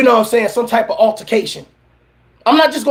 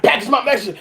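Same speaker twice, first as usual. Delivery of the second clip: mocking the line through a laugh; laughing mock quote; 2 semitones lower than usual. Mocking the young man's line through laughter. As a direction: laugh while quoting it back.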